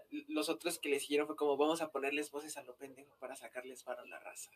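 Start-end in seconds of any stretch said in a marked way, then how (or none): 1.6-4.5 sneaky whisper. Retold or imitated. Mimics scammers plotting.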